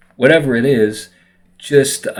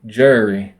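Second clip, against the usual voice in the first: slurred, sleepy Southern "Jerry"; Southern accent. Retold or imitated. Speaker imitating how a Southerner says his name, sleepy Southern accent. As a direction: say "Jerry" with a lazy Southern slur. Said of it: "someone from the South might be like".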